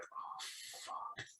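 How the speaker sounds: barely voiced, sinking dismay; hushed oh-no moment; dread under the breath. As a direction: whisper it as trouble dawns on you. Hearing school called his parents.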